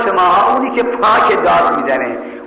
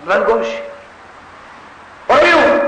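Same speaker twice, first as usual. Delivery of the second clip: mother shouting him out of the house; mother's shout; 5 semitones higher than usual. Retold or imitated. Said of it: "گفت غلط کردید شما".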